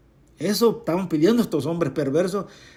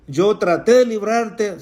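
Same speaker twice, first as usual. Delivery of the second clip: pleading king; 4 semitones higher than usual. Acted. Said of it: "como diciéndole".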